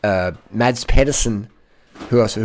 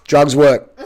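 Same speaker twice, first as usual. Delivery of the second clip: laughing; 4 semitones higher, 6 dB louder than usual. Real, not acted. Laughs after using inhaler.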